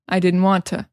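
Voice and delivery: "didn't" without its final T, "to" as "ta"; casual "didn't want to" with a weak "ta"; reduced didn't. Shown as a demonstration. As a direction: drop the T of "didn't". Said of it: "we also say".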